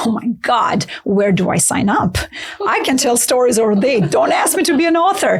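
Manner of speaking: breaking into a laugh, voice rising. Retold or imitated. Laughing, telling the publisher she'd rather just tell stories. Retold own laughing reply.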